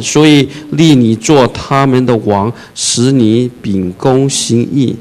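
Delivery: slow, measured reading of the verse; solemn scripture reading. Acted. Pastor reading the verse to the congregation, slow and solemn. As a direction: read the verse slowly and solemnly.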